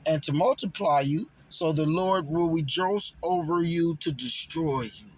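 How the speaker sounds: measured, solemn Bible reading; scripture reading. Acted. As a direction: read it like verses from the pulpit. Reads scripture aloud.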